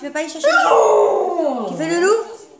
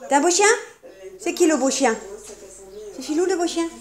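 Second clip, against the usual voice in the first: pet talk; faster than usual. Real, not acted. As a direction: coo at the dog. Praising dog in pet talk.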